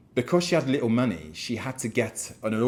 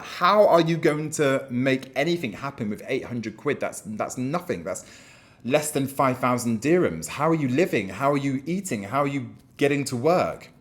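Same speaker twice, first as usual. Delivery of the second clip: incredulous questioning; 3 semitones higher than usual. Retold or imitated. Boss questions broke employee.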